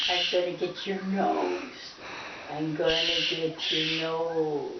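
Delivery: low, slow creeping growl; slowly stalk the nose, low; playful monster growl. Pretend.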